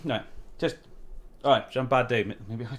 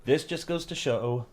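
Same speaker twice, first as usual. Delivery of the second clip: mocking mimic. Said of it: "I wanna mock so badly".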